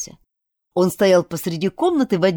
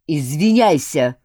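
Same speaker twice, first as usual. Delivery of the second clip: slow, louder growl; 4 dB louder than usual. Acted. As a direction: growl the order slowly. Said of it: "рыкнул он".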